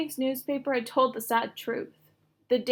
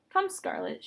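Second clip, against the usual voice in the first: high, put-on play voice; doll voice; 9 semitones higher than usual. A narrator's reading. Girl playing dolls, in a high pretend doll voice. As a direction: pretend to be a grand lady doll. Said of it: "using her doll voice".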